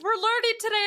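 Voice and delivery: high, innocent quoted voice; imitating oblivious co-host. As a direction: play the co-host who has no idea. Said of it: "and she's like".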